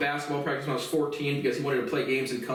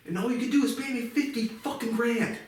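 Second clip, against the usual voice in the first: angry rant; 8 semitones higher than usual. Real, not acted. Ranting at Peter about money.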